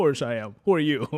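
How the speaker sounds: very loud, high, mocking sarcastic tone. Retelling replies to a message from an unknown number, retelling own sarcastic reply.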